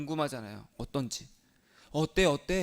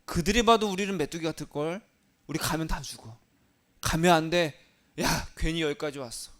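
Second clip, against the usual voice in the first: fearful spies; 4 dB louder than usual. Acted. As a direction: warn them off in a panic. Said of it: "나머지 열 명이 뭐라고 했냐면".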